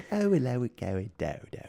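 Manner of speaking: mock posh British accent. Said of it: "was proper British".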